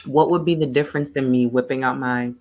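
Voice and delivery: coughing while eating ice cream; choking on food. Real, not acted. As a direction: talk through a throat catch from food. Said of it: "I'm choking on my ice cream".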